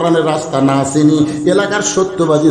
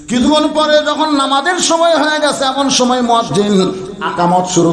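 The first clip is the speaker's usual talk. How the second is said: high chanted opening, settling to usual pitch; sermon storytelling; 9 semitones higher than usual. A narrator's reading. Preacher telling of a man holding the shepherd's hand, chanted sermon narration. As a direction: start high and intone, then ease down.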